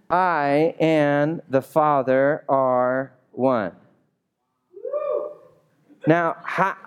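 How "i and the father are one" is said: very slow, each word weighted; weighty declaration. Acted. Pastor reading Jesus' boldest claim, slowly and weighty. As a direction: land it like a bombshell. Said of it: "drops this nuclear bomb".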